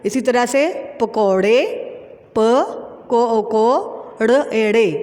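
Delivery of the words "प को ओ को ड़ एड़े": slow, drawn letter-by-letter spelling. Shown as a demonstration. Teacher spelling a word for pupils, slow and drawn out. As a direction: sound out each letter slowly with long gaps. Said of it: "क्या बना".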